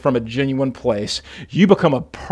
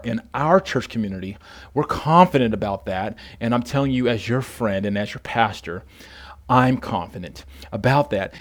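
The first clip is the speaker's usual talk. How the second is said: softer, lower, sincere reassurance; retold reassurance; 3 semitones lower, 5 dB quieter than usual. Pastor vouching for his jailed friend, gentle reassurance.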